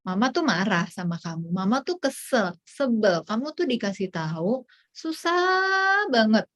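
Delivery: contoh ibu kesal yang akhirnya mengeluh panjang; marah dan frustrasi. Shown as a demonstration. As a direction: luapkan kesal tanpa membentak, ulur keluhan di akhir. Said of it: "selain marah, kita frustrasi". (ibu frustrasi menjelaskan perasaannya)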